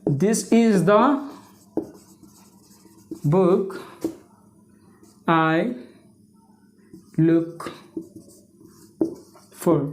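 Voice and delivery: very slow, word by word with long gaps; halting, low dictation with long pauses; dictating while writing. Real, not acted. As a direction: draw it out as you write each word.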